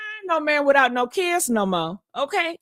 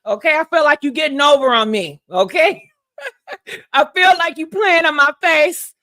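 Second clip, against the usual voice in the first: louder, laughing, half-crying rant; hammed-up complaint, laughing; 4 dB louder than usual. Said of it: "I said".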